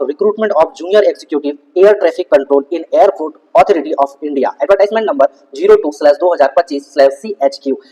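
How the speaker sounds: reading the notice title out word by word, slowly; slow official reading. Real, not acted. Vlogger reads the notification title to his viewers, very slowly. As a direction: spell out the heading slowly so viewers can follow.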